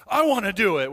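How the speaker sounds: put-on eager five-year-old, blurted out loud; eager kid. Preacher voicing Peter as an eager boy, loud and blurted. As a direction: pipe up like an impatient little boy. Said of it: "He's like the classic five-year-old boy".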